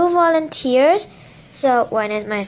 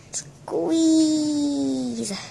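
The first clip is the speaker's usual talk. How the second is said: soft whispered cue; whispering; 3 semitones higher, 4 dB quieter than usual. Real, not acted. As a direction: breathe the word, no voice. Whispered cue to squeeze lemon.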